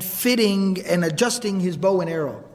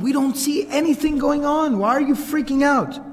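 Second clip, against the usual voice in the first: raised pitch, exasperated puzzlement; retold baffled protest; 5 semitones higher than usual. Family answers the screaming man, retold baffled protest. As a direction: imitate relatives at a loss.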